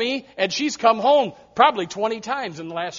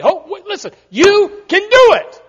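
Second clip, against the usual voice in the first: emphatic insist; 11 semitones higher, 10 dB louder than usual. Retold or imitated. Pastor insisting to Brittany on the phone, high and loud. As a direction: lean on it until she believes it.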